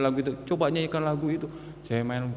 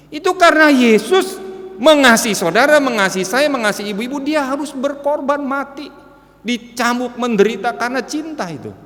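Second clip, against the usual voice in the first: much higher and louder impassioned proclamation; preaching at full force; 10 semitones higher, 11 dB louder than usual. Acted. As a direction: cry it out to the congregation. Preaching climax on the cross.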